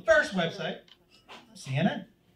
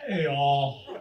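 put-on teen son's voice; 8 semitones lower than usual. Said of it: "you recognize that voice?".

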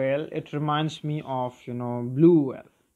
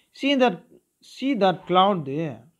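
grandfather pointing; 3 semitones higher, 4 dB louder than usual. Acted. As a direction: lean in and point up at the sky. Voicing grandfather pointing at clouds.

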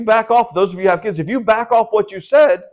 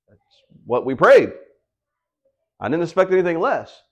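calm certainty; 2 semitones lower than usual. Retold or imitated. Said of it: "She goes".

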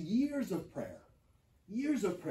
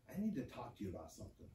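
much softer, quick hushed words; soft and serious; 8 semitones lower, 13 dB quieter, faster than usual. Retold or imitated. Son quietly approaching his mom about faith. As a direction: gently break the news to her.

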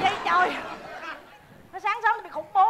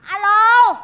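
loud, curt hello; irritated phone answer; 7 dB louder than usual. Acted. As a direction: answer the phone sharply, annoyed. Answering the nuisance phone call sharply.

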